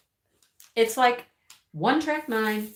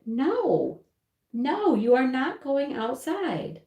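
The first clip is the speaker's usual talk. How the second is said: higher, drawn-out mock scolding; firm refusal; 5 semitones higher, slower than usual. Owner to whining dog at night, firm refusal. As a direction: lay down the law to a whining pet.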